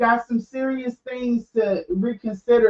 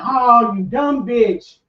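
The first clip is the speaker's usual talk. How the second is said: retold self-insult; 4 dB louder, slower than usual. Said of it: "she was like".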